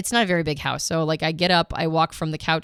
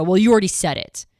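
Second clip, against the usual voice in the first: hostile retort; 6 dB louder than usual. Retold or imitated. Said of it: "in a very hostile way go".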